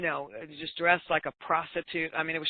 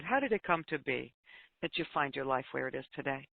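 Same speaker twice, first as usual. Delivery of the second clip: quiet, tender question, softer at the end; very gentle voice; 2 semitones lower, 6 dB quieter than usual. Retold or imitated. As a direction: ask gently and let it sink in. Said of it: "in just a very gentle voice".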